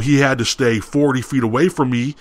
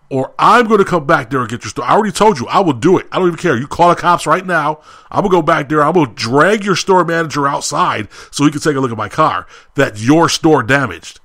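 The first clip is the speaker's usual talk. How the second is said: retold angry ultimatum, pitched higher; angry threat; 3 semitones higher than usual. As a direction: re-enact threatening the staff, worked up. Angry threat retold to restaurant staff.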